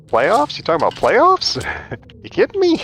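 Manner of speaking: high, loud incredulous coach rant; mock the coach's disbelieving outburst, pitching way up; hammed-up press conference tirade, voice climbing high; Jim Mora playoffs rant. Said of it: "From the press conference where he lost his job".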